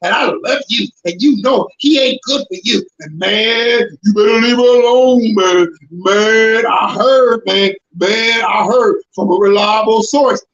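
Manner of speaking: lightly voiced gossip swearing it's true; a hint of a smooth gossip voice; gossiping friend. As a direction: play the sweet-talking friend passing on rumors. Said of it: "They was talking like this".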